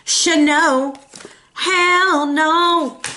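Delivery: drawn-out, sassy refusal; emphatic refusal. Acted. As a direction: stretch each word into a firm refusal. Voicing Libra's emphatic refusal.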